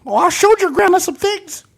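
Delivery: high grandma-like promo voice; wrestling promo. Pretend. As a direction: taunt like a wrestler in an old lady voice. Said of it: "you sound like my grandma".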